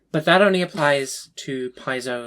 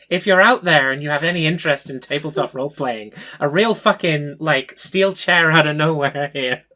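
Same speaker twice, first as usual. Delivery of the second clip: excited call-out; 2 semitones higher, 6 dB louder than usual. Real, not acted. Calling out to Matt Smith.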